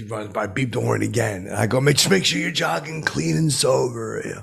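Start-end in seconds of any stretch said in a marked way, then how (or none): 1.8-4.2 mock call out. Yelling from car at jogger.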